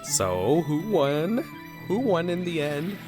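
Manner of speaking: high, swooping questions; sing-song, rising curiosity; eagerly curious. Real, not acted. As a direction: press teasingly for the result. Eagerly wants to know winner.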